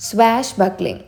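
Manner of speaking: "Swashbuckling" slowly, falling at the end; drawn-out teaching take of "Swashbuckling"; pronunciation demo. Shown as a demonstration. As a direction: model "Swashbuckling" for learners. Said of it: "ഇത് pronounce ചെയ്യാൻ പ്രത്യേകിച്ചൊന്നുമില്ല".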